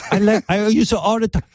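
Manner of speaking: put-on high girly lady voice; man doing a woman's voice. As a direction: chirp it up like a lady. Mimicking the guest.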